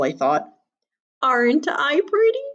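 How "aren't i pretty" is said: put-on high vain old lady; vain granny. A narrator's reading. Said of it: "Granny said".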